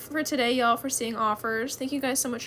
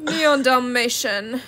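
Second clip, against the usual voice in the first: whisper; 8 dB louder, much slower than usual. Real, not acted. Reading offer items.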